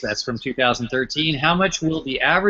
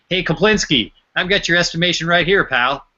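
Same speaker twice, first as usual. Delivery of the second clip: game show title; 5 semitones higher than usual. Acted.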